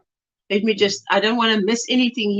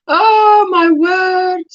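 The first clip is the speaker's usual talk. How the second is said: slow, higher and louder oh my word; surprised; 6 semitones higher, 5 dB louder, much slower than usual. Real, not acted. Reacting to a viewer's message, slow and amazed. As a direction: stretch it out in amazement. Gasp then exclaims.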